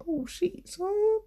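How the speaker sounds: high, hyped DJ shout-out; hipster DJ voice. Retold or imitated. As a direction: play the hipster DJ. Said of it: "why am I talking like a hipster D J".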